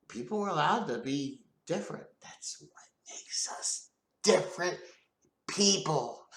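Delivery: breathy hushed whisper. Real, not acted. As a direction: lean in and whisper it. Whispered aside.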